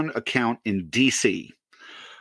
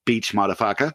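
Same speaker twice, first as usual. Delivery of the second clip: put-on African English accent; 3 semitones lower than usual. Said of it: "in the thickest African English accent".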